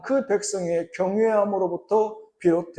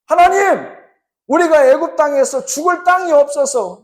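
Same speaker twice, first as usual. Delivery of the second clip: higher, raised grumbling at God; complaining Israelites; 6 semitones higher, 3 dB louder than usual. Acted. Israelites complaining to God in the desert, raised and higher. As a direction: whine and protest to God.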